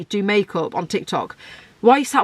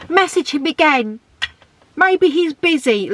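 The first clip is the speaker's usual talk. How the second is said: higher, slower mock girlfriend voice; sending up a friend's bad advice, higher and slower; mocking clueless girlfriend; 8 semitones higher than usual. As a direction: mimic a naive friend egging you on.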